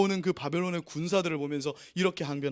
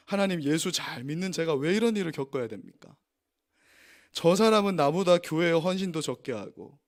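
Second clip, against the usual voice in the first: mock complaint; 4 dB louder than usual. Believer complaining to God.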